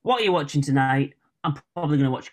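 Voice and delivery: natural Northern English accent; old-fashioned Northern accent. Shown as a demonstration. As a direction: show how a Northerner says it. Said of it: "the good old-fashioned Northern way".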